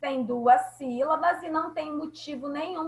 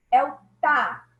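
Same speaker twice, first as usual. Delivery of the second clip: ordinary delivery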